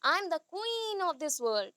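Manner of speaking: slow, grand proclamation as a queen; queen proclaiming. Shown as a demonstration. Teacher demonstrating voice modulation to students as a slow regal queen. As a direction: drag each word out like a proud queen. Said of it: "देखो मेरा voice का कितना changes आया".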